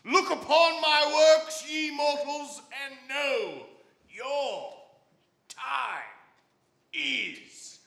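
booming grim reaper proclamation; solemn godlike death voice; vast deep cosmic voice. Acted. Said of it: "I bet you do a mean Shatner impersonation".

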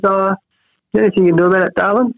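a hint of a doting nan asking gently; nana's voice. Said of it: "And she goes".

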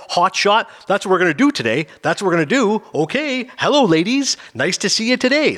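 cheesy father-next-door voice, Leave It to Beaver style; a corny sitcom dad greeting the neighbours; corny fifties dad. Retold or imitated. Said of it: "he's got that kinda corny nineteen fifties, you know, father next door".

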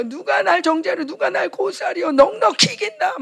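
mildly acted tearful declaration; imitating a weeping declaration of victory; tearful proclamation. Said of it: "막 울면서 막 선포하는 거야".

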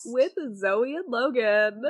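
slow, drawn-out radio host; shock jock radio host. Acted. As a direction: stretch the names like a DJ. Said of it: "leaning into my, like, shock jock voice".

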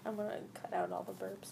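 whispering. Real, not acted. Aside about editing.

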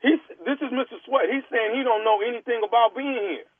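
prank caller as store clerk. Pretend. Prank caller as store clerk pressing the star to come sign, lightly voiced clerk. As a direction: play a pushy store clerk on a prank call. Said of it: "Nephew Tommy".

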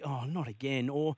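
ordinary talk, nothing marked

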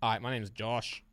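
slow, soft accent impression; Tommy T. Shown as a demonstration. Player switching to a second impression on request, slow put-on voice. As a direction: draw the introduction out slowly in a put-on voice. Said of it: "Now do Tommy T".

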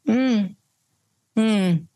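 a short closed-mouth knowing mm; a calm, knowing mm; knowing hum. Shown as a demonstration. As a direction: hum it like an unimpressed okay. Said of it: "Like that".

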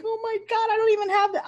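high, loud, shocked squeal; mock panic, voice jumping high; retelling her own freak-out. Panicked reply, retold.

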